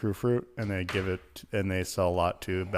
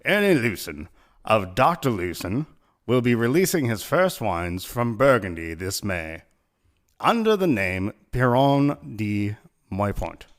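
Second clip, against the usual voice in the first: put-on British accent; 2 semitones higher, 4 dB louder than usual. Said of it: "I started doing the British accent".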